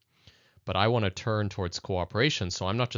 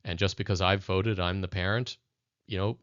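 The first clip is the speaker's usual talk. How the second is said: authoritarian parent. Retold or imitated. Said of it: "a very authoritarian approach".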